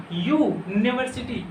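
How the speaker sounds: यू held alone, then यूनिवर्सिटी; first sound isolated. Shown as a demonstration. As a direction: isolate the "yu" glide before saying यूनिवर्सिटी. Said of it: "यो आ रहा है ना बच्चों".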